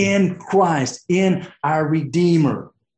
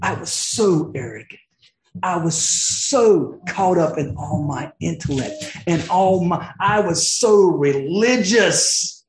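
voicing Paul. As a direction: let Paul marvel aloud, then drop to a whisper. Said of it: "He's like".

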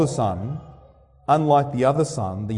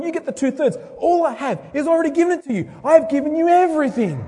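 father voiced higher, pleading tenderly; loving father; 11 semitones higher, faster than usual. Father gently pleading with his angry older son. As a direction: reach out gently to a sulking son.

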